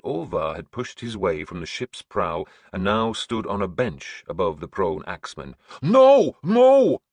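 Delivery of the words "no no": loud, much higher repeated roar. A narrator's reading. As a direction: bellow it across the deck. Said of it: "Orvar shouted at me".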